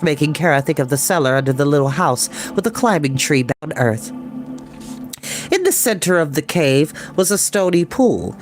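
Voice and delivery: usual speaking voice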